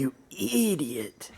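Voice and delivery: slow, high yappy Chihuahua voice; yappy small dog. Acted. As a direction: snap it like a tiny Chihuahua. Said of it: "your Chihuahua voice".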